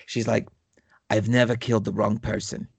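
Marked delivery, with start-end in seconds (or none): 1.1-2.7 put-on lightly done gruff Brooklyn accent, sincere; a hint of a tough Brooklyn killer, earnest. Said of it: "with, like, this gruff Brooklyn accent".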